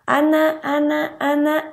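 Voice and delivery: high sing-song call of the name Ana; calling baby's name. Shown as a demonstration. Mother calling her baby Ana, high sing-song. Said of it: "dice su nombre y voltea".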